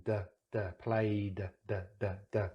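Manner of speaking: "duh" sounded alone around "played"; voiced D. Shown as a demonstration. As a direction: repeat the vibrating D as separate short beats. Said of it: "you can feel the vibration".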